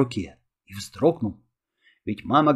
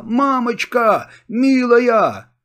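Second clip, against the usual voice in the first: calling mother; 8 semitones higher, 5 dB louder, much slower than usual. A narrator's reading. Boy calling mother in relief.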